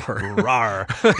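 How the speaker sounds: playful growl broken by a laugh; Hulk roar. Pretend. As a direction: growl out a mock monster roar. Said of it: "I dare you to do that Hulk imitation again".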